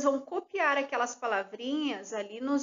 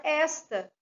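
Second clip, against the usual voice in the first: "esta" with the stress on ES, not on the end; stress on first syllable: ESta; 3 semitones higher than usual. Shown as a demonstration. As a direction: say "esta" as ES-ta, accent dropped. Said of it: "se eu não coloco o acento agudo". ("esta" com a sílaba tônica no ES)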